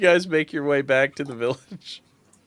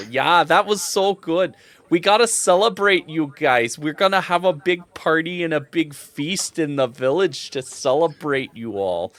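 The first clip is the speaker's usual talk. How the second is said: higher, enthusiastic villager voice; celebrating villager; 4 semitones higher than usual. Acted. Villager inviting heroes to the feast, enthusiastic. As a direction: welcome the heroes to a party.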